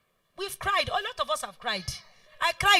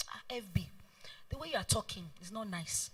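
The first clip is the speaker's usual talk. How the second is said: soft unvoiced whisper, leaning in to warn; 7 semitones lower, 14 dB quieter than usual. Younger team member whispering a warning to her boss, hushed. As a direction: hush it like a private aside.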